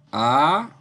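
spaced-out "Aparte", leaning on "par"; syllable-by-syllable demo. Shown as a demonstration. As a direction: sound out "Aparte" with pauses, stressing "par". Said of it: "es par".

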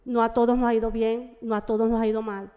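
Portuguese mixed with Spanish; portunhol. Real, not acted. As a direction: speak in Spanish-tinged portunhol. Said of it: "Eu vou falar um pouco em portunhol".

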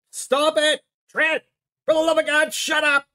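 snapping at an unseen co-host in rising fury; exasperated shout. Acted. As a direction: lose it and shout him down. Yelling at silent co-host Trent.

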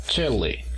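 Chile with a strong Chi; stress on the first syllable. Shown as a demonstration. Teacher models the country name, first syllable strong. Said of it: "la mayor fuerza de voz está en la primera sílaba".

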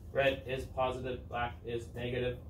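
lightly done monotone robot voice. Retold or imitated. Teacher recalling how it was taught, in a mild robot voice. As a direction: recite it like a robot, mildly. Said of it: "in this weird robot voice".

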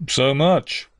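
mildly doubtful reply. A narrator's reading. Stony stranger doubts the little girl's age, mildly doubtful. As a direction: query it with a touch of doubt. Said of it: "was the doubtful answer".

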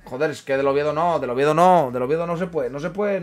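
loud, emphatic refusal of Oviedo; shouting no to the Oviedo shirt; loud protest. Real, not acted. Protesting a rival team prize. (rechazo gritado y enfático)

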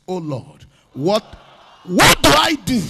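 first take that starts low and only lifts on the last words; half-voiced opening call; call and response. Shown as a demonstration. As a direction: lead the crowd into the cry. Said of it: "Say with me at your loudest voice".

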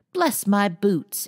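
slow, loud, high croaking bird voice; squawking parrot. A narrator's reading. Parrot's astonished croak to make Amy laugh. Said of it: "an astonished croak".

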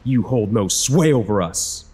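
high shouted rebuke of a demon; screaming back. Acted. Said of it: "I screamed back".

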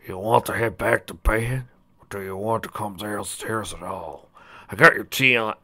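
lightly voiced old stallion; caring father. Father helping his wife out of the bathroom, gently concerned. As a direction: offer help as a caring husband.

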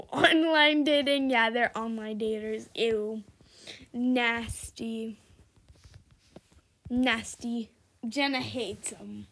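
normal talking voice

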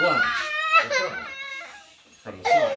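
high, loud called command; crisp fencing commands. Shown as a demonstration. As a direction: call it out across the room. Calling drill commands.

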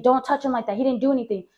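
mildly indignant retold protest; mad. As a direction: plead a brother's case with some heat. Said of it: "I got so mad".

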